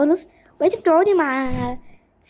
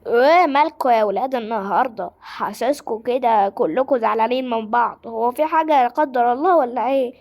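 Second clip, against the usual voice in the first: teacher voice. Acted. Teacher figure addressing class.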